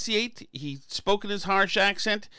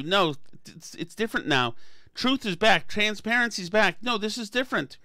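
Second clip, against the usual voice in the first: higher, gushing praise; mock cheerleading media; 3 semitones higher than usual. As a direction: cheer her on like a starstruck fan. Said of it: "if you have the media telling you".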